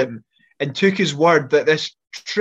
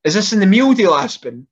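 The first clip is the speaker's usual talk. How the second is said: raised, loud question; asking loudly; 4 semitones higher, 5 dB louder than usual. Retold or imitated. Mate asking his friend at the till, raised loud question. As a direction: call the question out, pitch up, louder. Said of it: "he's like to Aspen".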